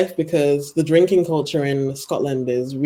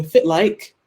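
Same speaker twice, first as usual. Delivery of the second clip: Doric greeting. Shown as a demonstration. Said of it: "so people go".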